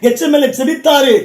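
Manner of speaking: full-force Tamil sermon delivery; impassioned preacher rousing a congregation; fervent preaching. Real, not acted. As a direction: preach it out in ringing, driving phrases.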